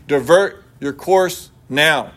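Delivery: slow, drawn-out command, each word set apart; stern captain's order. Acted. Navy captain warns the lighthouse, slow stern command. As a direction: lay down the order slowly like an officer who expects obedience. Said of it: "Voice one".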